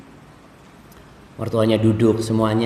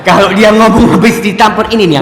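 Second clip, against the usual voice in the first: laughing aside; 7 semitones higher, 8 dB louder than usual. Acted. Preacher jokes at husband's expense.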